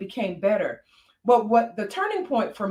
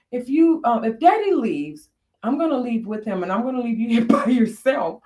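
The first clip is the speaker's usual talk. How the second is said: put-on child's threat; 3 semitones higher, 3 dB louder than usual. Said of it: "She said".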